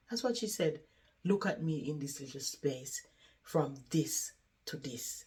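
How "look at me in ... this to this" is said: soft, lingering on the small space; quiet, resigned retelling; subdued lament. Retold or imitated. Resident lying on her back showing her space, subdued.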